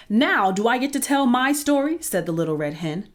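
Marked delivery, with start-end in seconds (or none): 0.1-2.0 higher, louder impatient demand; fed up and insisting; indignant demand. Acted. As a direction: hen demanding her turn, exasperated. Hen fed up, demanding her turn.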